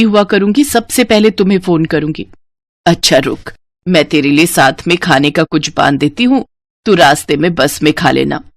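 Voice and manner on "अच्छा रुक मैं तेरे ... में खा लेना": lower, gentle mother's voice; a mother hiding her sadness at parting; worried mother. Acted. Mother seeing her daughter off, lower and tender.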